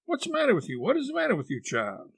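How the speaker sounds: very high, urgent questioning; alarmed, high-pitched worry; frantic aunt. Acted. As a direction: demand again and again, dropping on the last word.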